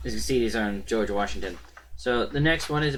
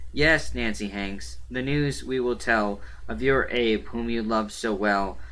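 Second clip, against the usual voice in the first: measured verse reading with even rhythm; poem recitation. Acted. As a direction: read the rhymed reply line by line. Reads a reply poem aloud.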